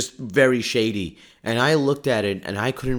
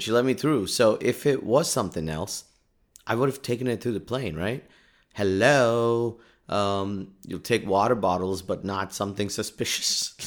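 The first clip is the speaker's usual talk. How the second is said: ordinary talk, nothing marked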